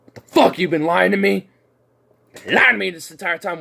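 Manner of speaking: mock betrayed yell; imagined friend's outrage. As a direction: play the shocked, accusing buddy. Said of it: "It's like".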